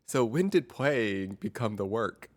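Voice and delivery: slow, gentle therapist question; calm crisis counselor. Retold or imitated. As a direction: ask it slowly, like a gentle therapist. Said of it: "that's my impression of a therapist".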